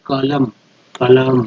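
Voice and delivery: कलम with the stress on क; कलम, first syllable stressed. Shown as a demonstration. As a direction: lean on the क of कलम, not the ल. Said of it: "क पे जा".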